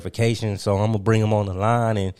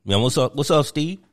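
Kwame Brown. Acted. Host plays Kwame Brown phoning in, lightly voiced. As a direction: slip into a put-on caller voice. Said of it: "I present to you Mister Kwame Brown".

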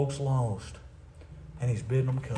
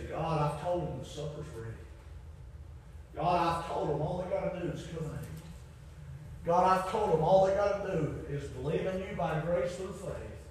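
hushed pleading; 3 semitones higher, 6 dB quieter than usual. Acted. Voicing Christ pleading to His Father.

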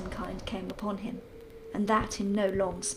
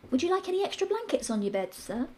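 a deferential maid, pitched up; maid's voice; 6 semitones higher than usual. Acted.

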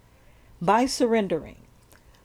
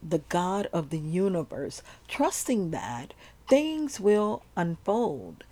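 sleep story narrator. Acted. Leads a surrender meditation.

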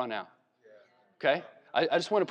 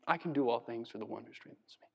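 lower, much softer, hushed; quiet humble awe; 6 semitones lower, 9 dB quieter, faster than usual. Pretend. Paul after shipwreck and beatings, hushed and humble. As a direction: breathe it out like a battered survivor. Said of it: "I died, came back to life".

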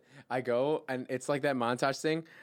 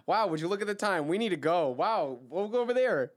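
loud, high, hammed-up excuse to leave; change the subject with fake amazement; obviously put-on hurry; feigned surprise; 8 semitones higher, 6 dB louder than usual.

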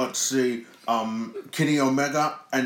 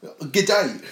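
higher, louder hammed-up Australian G'day; mock Aussie greeting; 7 semitones higher, 7 dB louder than usual. Friends joking about Australia gifs, hammed-up Australian accent. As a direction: lay on a cartoon Australian accent. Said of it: "I'm from Australia".

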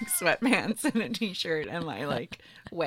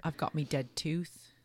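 whisper; 2 semitones lower, 6 dB quieter than usual. Real, not acted. Playful confession.

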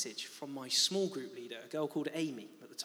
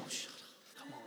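mock dismissal; 13 dB quieter than usual. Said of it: "I'm like".

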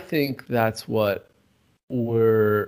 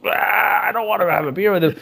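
scoffing dismissal; 8 semitones higher than usual. Retold or imitated. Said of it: "you immediately going".

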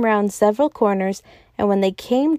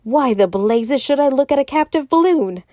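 raised, irritated demand; angry demand; 4 semitones higher, 3 dB louder than usual. A narrator's reading. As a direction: throw the question back in exasperation. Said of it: "demanded the secretary".

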